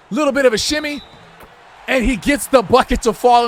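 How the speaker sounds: hyped sports announcer calling the game; lively courtside commentary; play-by-play commentary. Pretend. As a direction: call every move like a TV broadcaster.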